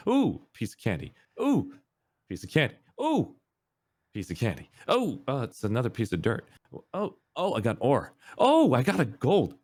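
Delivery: high squeals of ooh at every find; delighted kid. Retold or imitated. Kid mining in the game, squealing with delight. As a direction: squeal like a kid finding candy. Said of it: "having the greatest time".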